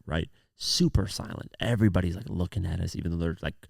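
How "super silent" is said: whispered. Retold or imitated. Hushed classroom, everyone watching.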